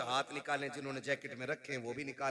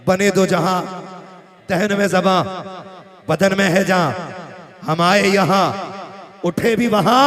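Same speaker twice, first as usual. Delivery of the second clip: loud, measured declamation with pauses between phrases; verse recitation; 4 semitones higher, 20 dB louder, slower than usual. Acted. Preacher reciting a couplet to the gathering, loud verse recitation. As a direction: project each short phrase of the couplet to the hall.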